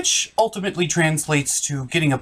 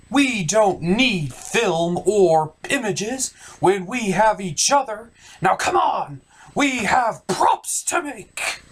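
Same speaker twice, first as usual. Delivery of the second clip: rallying cry; 2 semitones higher, slower than usual. Acted. Rallying the others to make props.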